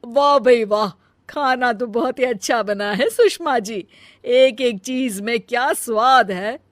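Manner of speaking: visiting aunt praising the food to Sushma. Acted. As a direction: gush over the food like a guest aunt. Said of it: "मौसी बोलती है".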